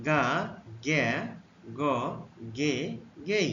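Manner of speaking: teacher modelling গা গে গ গে গেই; letter sounds demo. Shown as a demonstration. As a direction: model গা গে গ গে গেই with a pause after each. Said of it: "জি এর জন্য".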